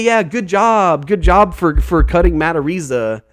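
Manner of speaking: drip sarcasm at the team; sarcastic. Real, not acted.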